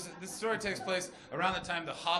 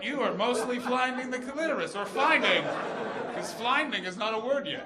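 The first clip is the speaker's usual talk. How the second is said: boss in a performance review; 4 dB louder than usual. Pretend. Woman reviewing her lover's performance, mock bossy directness. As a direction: deliver it like a blunt performance review. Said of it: "direct, like a boss during a performance review".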